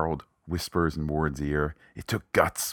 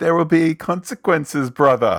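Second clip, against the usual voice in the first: put-on English accent, very loud and very high; 11 semitones higher, 10 dB louder than usual. Recapping a show, quoting a character's parting line in an english accent. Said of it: "That's my English accent again".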